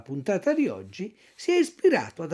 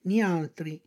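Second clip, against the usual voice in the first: quieter cat echo; 4 dB quieter than usual. Acted. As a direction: murmur it back. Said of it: "ripeté il gatto".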